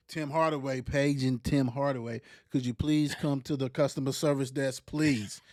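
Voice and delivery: mock store intercom announcement; flat echoey PA page. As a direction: page him like a store loudspeaker.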